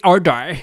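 imitated 'order' with her pronunciation; mock-accented 'order'; mimicking her 'order'. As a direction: say 'order' just as the shop owner does. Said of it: "the way she says order".

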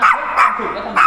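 dog's smug inner voice. Retold or imitated. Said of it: "คิดไปเองว่า".

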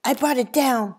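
put-on loud wronged boy; indignant shout. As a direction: insist it was yours. Richard keeps protesting loudly.

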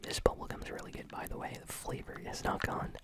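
whispering while chewing gum. Real, not acted. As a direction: talk around a wad of gum. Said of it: "I had been gum chewing the whole time".

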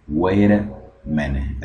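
slow "Wait a" linked as "weira". Shown as a demonstration. Teacher recapping the rule, "Wait a" with T as R. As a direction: tap the T of "Wait" into "a" like an R. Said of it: "Esa T se convierte en R".

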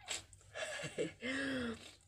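real high, drawn-out sobbing breath; tearful sob. Real, not acted. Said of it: "Naiyak ako".

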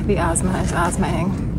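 winded, still catching breath; breathless aside. Real, not acted. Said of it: "I'm so out of breath".

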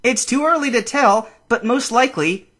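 high-pitched creature voice; Pikachu's voice. A narrator's reading. Pikachu answers Ash about the wreck, high creature voice. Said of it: "Pikachu said".

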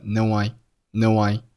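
"no" gliding straight into "I"; linked "no I". Shown as a demonstration. Teacher showing how "no I" links together. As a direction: join "no" and "I" as one word. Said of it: "no和I连读成了no I".

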